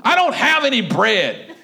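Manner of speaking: slow, acted indignation; mildly angry, slow refusal; mad. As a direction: draw it out as an angry retort. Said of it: "And she got mad".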